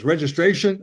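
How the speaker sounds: cop with a lightly put-on Wisconsin accent. Wisconsin cop pulling the comic over for speeding, Wisconsin accent. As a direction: play a Wisconsin traffic cop's accent. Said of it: "he's got the Wisconsin accent".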